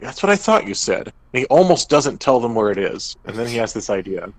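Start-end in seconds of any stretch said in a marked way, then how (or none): 0.0-1.1 wary dwarf. Retold or imitated. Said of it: "He's like".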